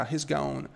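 "He's gone" with "has" shrunk onto "He"; contracted "has". Shown as a demonstration. Teacher showing students the short form, "He's" contracted. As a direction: run "He's" together as one short syllable. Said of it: "quando você coloca na forma contracta".

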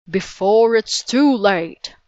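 a giant urging them away, slowly and loud; booming warning. A narrator's reading. Giant gladiator to the children, a slow loud boom. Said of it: "the giant gladiator boomed".

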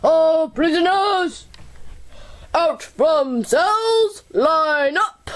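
prison guard. Acted. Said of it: "said the warden himself".

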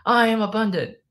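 loud, high-pitched chant; high rallying yell; yelled affirmation. Shown as a demonstration. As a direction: shout it out with full energy.

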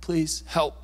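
hushed, half-whispered begging; desperate plea. Acted. Father begging Jesus for his sick son, hushed desperation. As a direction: beg for help with barely any voice. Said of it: "Can you hear the desperation in his voice?".

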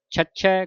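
ਛੱਛੈ with a firmly doubled middle consonant; tight ਛੱਛੈ. Shown as a demonstration. Teacher coaching pronunciation, tightly held ਛੱਛੈ. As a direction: press hard on the doubled sound in ਛੱਛੈ. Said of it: "ਕੱਸ ਕੇ ਬੋਲਣਾ".

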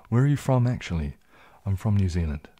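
attempted New Zealand accent. Shown as a demonstration. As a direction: have a go at sounding like a New Zealander. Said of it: "Can I do a New Zealand accent".

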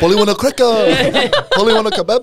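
high laughing parrot impression. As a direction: squawk it like a pet bird. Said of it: "talking to the bird".

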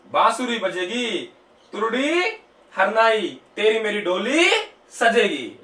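slow, drawn-out recital, word by word; mnemonic recitation. Shown as a demonstration. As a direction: stretch each keyword out for students to memorise. Recites a memory-trick story. (धीमे, खींचकर याद कराने वाला पाठ)

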